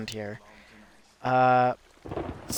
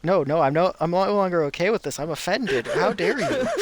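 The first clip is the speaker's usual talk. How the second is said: mock offended; 4 semitones higher than usual. Retelling pretending to be offended.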